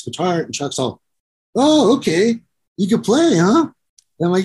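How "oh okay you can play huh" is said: high, impressed mock voice; mock surprised Chuck. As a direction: imitate a bandmate suddenly impressed, pitched up.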